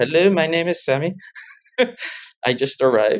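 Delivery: put-on much stronger British accent, laid on thick. Recalling introducing himself on first arriving at the student center, heavy British accent. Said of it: "I had a much heavier British accent at the time".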